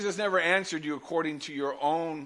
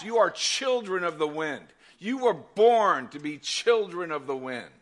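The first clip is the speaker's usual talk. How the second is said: louder, slower, building declaration; booming motivational speech; 2 semitones higher, 5 dB louder than usual. Acted. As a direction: proclaim it to the whole room. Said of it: "I want you to hear this".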